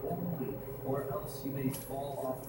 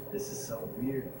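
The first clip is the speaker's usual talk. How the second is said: ordinary talk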